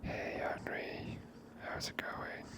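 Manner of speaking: ordinary talk, nothing marked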